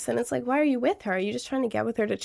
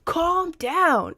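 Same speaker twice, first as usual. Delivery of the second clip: higher, curt "Calm down" brushing off feelings; dismissive calm down; 6 semitones higher than usual. Shown as a demonstration. Someone telling an upset person to calm down, dismissive. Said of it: "someone tells you".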